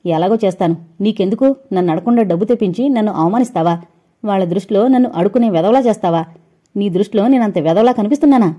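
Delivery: heated, fast, rising anger; angry. Acted. Husband confronting his wife over the borrowed money, angry. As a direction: demand it hurt and furious. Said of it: "అడిగాడు కోపంగా".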